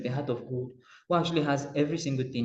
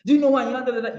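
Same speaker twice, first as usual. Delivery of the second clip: loud, higher bluster; louder, higher pompous shout; mock shout; 9 semitones higher, 6 dB louder than usual. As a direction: bellow it like a self-important big man. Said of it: "how we shout it now".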